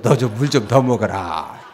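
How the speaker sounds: low, laughing mock line; teasing Jesus. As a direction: tease lightly, chuckling. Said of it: "예수님이". (웃으며 놀리는 낮은 목소리)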